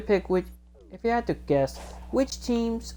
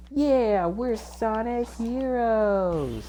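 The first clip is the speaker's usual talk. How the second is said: high, triumphant hero's cry; Sonic; 7 semitones higher, much slower than usual. Retold or imitated. Sonic rallies the team, high drawn-out victory cry. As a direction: cheer it high and stretch the last word. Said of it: "Sonic goes".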